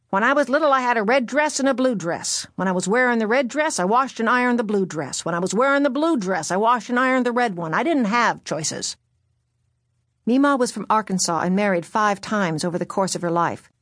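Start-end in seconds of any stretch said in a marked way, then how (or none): 0.1-9.0 dry crackling grandmother voice; crackly voice. Retold or imitated. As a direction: crackle it like a tough old grandmother. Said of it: "in her dry, crackling voice".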